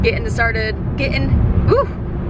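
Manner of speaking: tripping over words, caffeinated; words tumbling out too fast; too much caffeine. Real, not acted. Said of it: "I cannot talk. The caffeine is kicking in".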